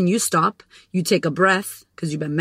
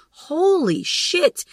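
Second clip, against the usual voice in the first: high, slow amazed holy shit; stunned; 9 semitones higher, much slower than usual. Real, not acted. Watching her brain tempt her, slow stunned exclaim. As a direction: let it hang in disbelief.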